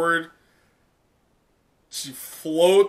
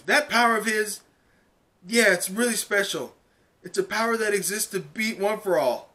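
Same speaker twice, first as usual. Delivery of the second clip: put-on higher earnest girl's voice; Uraraka explaining; 5 semitones higher than usual. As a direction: explain it with conviction. Uraraka continues her speech.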